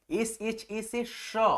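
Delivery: letters spelled out slowly one by one; slow dictation to students; slow spelling. Shown as a demonstration. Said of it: "spelling letters out for students".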